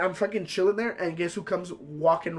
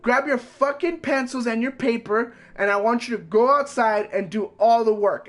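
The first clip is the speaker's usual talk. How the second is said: slow, higher, bossy teacher barking orders; hammed-up angry teacher; mock angry teacher; 3 semitones higher than usual. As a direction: imitate the teacher snapping at him. Teacher yelling at student, retold.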